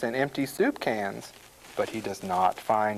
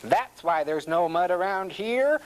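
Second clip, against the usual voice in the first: higher-pitched pig exclamation; crying out; 7 semitones higher than usual. A narrator's reading. Small pig seeing a vacuum cleaner, crying out. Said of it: "cries the small pig".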